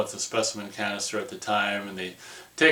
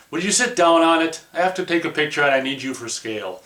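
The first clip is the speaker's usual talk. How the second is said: higher, louder nagging at his partner; mock exasperated demand; 5 semitones higher, 3 dB louder than usual. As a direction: bicker like an old married couple. Astronauts bickering over photo.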